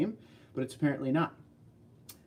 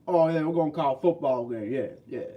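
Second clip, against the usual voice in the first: a put-on Southern football-fan voice; playful fake Southern accent; mock Southern accent; 4 dB louder than usual. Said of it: "work on the whole accent".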